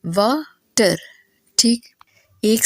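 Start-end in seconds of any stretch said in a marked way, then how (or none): 0.1-1.0 वाटर broken in two, वा then टर, with a clear pause between; split into syllables. Shown as a demonstration. Teacher showing two syllables in वाटर, split with a pause. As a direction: say वाटर syllable by syllable, pausing after वा. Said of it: "तो इसके अंदर है दो syllable".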